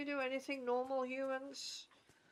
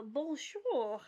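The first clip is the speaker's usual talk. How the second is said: put-on slow, loud French-accented greeting; playful French accent attempt; Frenchiest French accent; 3 semitones higher, 6 dB louder than usual. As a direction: lay on a light French accent. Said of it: "that was my Frenchiest French accent".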